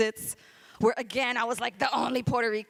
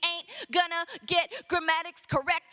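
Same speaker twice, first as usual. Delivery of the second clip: rhythmic, driving slam poetry delivery; spoken word poem; 6 semitones higher than usual. Acted. Poet defending their Puerto Rican speech, rhythmic slam delivery. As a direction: punch out the syllables in a steady beat.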